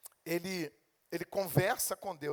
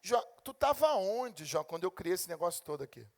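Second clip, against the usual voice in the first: God rebuking Job; 5 semitones higher than usual. Retold or imitated. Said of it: "e dizer: Jó".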